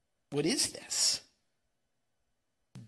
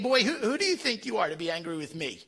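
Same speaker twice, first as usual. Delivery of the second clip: stern God. Retold or imitated. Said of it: "God is saying".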